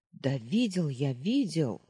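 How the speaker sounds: put-on a touch of boyish anger, pressing on видел; boy annoyed at the sentry's doubts; irritated insisting. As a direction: snap back, fed up with being doubted. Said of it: "обозлился Перети".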